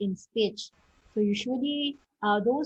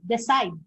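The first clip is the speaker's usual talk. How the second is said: "decide" with a strong "cide"; stress on second syllable; 4 dB louder than usual. Shown as a demonstration. Teacher giving an example of verb stress, "decide" stressed on "cide". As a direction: lean on the last syllable of "decide". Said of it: "the stress is found in the second syllable".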